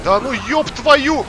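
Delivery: slow, drawn-out furious yell; raging gamer. Real, not acted. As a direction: stretch the curse out in rage. Raging at game.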